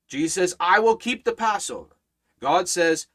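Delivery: rising and falling pulpit cadence, punching each key word; fervent preaching. Acted. Pastor preaching the Passover promise to his congregation, fervent.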